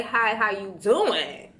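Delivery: put-on slow, playful British accent. Pretending to greet someone with a new accent, British accent. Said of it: "in a British accent".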